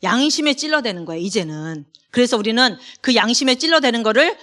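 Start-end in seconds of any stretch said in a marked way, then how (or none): none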